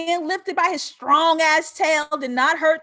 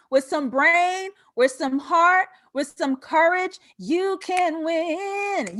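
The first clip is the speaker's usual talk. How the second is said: slow, weighted words building to you can win; rousing; 3 semitones higher, slower than usual. Real, not acted. Speaker inspiring audience, slow rousing emphasis. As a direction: drive each phrase home slowly.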